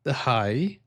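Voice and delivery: "high" lifted into a rise; sing-song Norwegian lift on "high"; high rising intonation. Shown as a demonstration. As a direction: let "high" swing upward at the end. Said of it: "because Norwegians have the".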